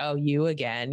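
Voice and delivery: ordinary talk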